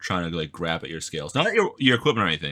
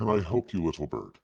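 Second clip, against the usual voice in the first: deep put-on creature voice, quieter; 4 dB quieter than usual. Voicing a creature in a story scene, speaking to a little bird: deep creature voice. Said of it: "now I have to fucking do a deep ass voice".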